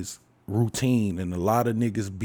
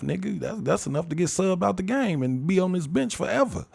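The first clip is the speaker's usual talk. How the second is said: higher-pitched indignant sports rant; worked-up rant; 5 semitones higher than usual. Acted. Fan griping at a player ignoring the scouting report, worked-up rant. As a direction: complain in disbelief, pitch climbing high.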